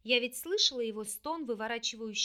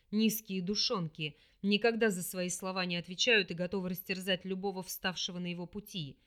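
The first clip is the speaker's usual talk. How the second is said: scornful demon; 4 semitones lower than usual. Acted. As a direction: sneer at her kind. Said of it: "презрительно произнёс тёмный".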